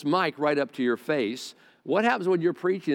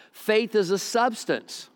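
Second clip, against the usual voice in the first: slow, weighty, higher line; slowed emphatic restatement; 4 semitones higher, slower than usual. Real, not acted. Preacher to congregation, slowing down deliberately. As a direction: lay the phrase down slowly and deliberately. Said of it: "slow down".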